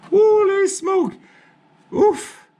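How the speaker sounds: startled high shout; surprised exclamation. Real, not acted. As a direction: caught off guard by a sudden mess. Oil spills from filter.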